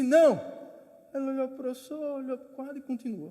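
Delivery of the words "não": loud snapped "Não!"; teacher's sharp no. Retold or imitated. Teacher interrupts the second student, loud snapped no. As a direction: stop him with one word. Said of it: "o professor disse".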